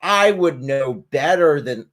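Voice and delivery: mock condescension. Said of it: "looking back and saying".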